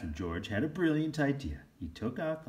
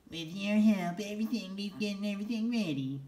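cheerful elf voice; 12 semitones higher than usual. Acted. Elf thanks George for helping wrap toys, high and bright. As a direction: sing it out like a grateful elf.

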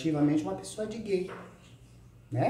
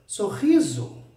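usual speaking voice

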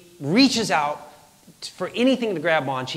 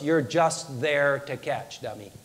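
slow, lower, deadpan inner voice; voice in head; 4 semitones lower, 5 dB quieter, slower than usual. Retold or imitated. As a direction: talk down to yourself, dropping away on the last word. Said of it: "like a voice in my head".

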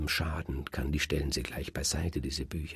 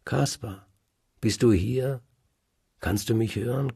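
raised calling voice into a vast hall; a searching call, raised and high; 5 semitones higher, 5 dB louder than usual. Acted. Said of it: "Und sie ruft".

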